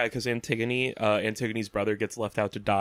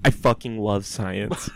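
laughing; slower than usual. Real, not acted. Repeating the meme, laughing.

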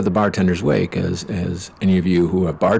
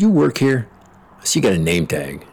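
mimicking rude customer; 4 semitones higher than usual. Rude bar customer quoted.

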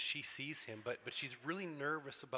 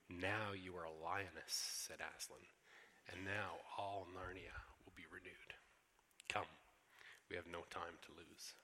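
solemn lion Aslan; 4 semitones lower than usual. Acted.

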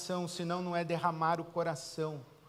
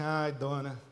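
weary God. Retold or imitated. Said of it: "Deus ouve aquela mulher e fala assim".

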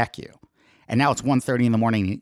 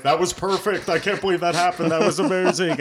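excited friend; 6 semitones higher than usual. Retold or imitated. Friend reacts to the meeting.

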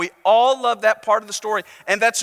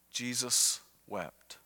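slow, hushed and much softer, lower "Jesus wept."; hushed verse; 9 semitones lower, 12 dB quieter, slower than usual. Shown as a demonstration. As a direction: let "Jesus wept." fall to a near hush, slowly. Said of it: "make that our memory verse".

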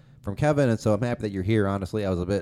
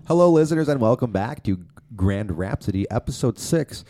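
podcast host intro. Acted.

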